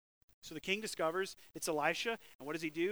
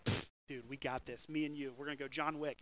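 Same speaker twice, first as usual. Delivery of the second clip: cocky dude; 5 semitones lower, 3 dB quieter than usual. Retold or imitated. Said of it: "you're like".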